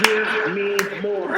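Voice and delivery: very slow, stretched-out demand; intense director. Retold or imitated. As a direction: draw out each word as a director. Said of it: "gets in my face".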